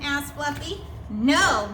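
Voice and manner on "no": gasped. Acted. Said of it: "gasped the rhinoceros".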